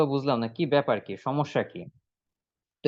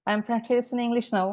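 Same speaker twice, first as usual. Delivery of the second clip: slow higher model answer; 6 semitones higher, much slower than usual. Shown as a demonstration. Student answering elder brother in English, slow and raised. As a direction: answer line said slowly and clearly higher. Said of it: "তারপরে বাংলা বলেন যে".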